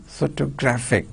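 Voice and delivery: PHO-to-GRAPH-ic; "photographic" stressed on PHO and GRAPH; two stressed syllables. Shown as a demonstration. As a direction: demonstrate both stresses in photographic. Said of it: "There are two syllables are stressed".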